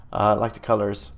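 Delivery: ordinary delivery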